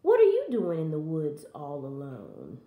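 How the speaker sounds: low, prying wolf voice; low storybook wolf; growling wolf. Acted. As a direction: question her as a sly wolf. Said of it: "growled the wolf".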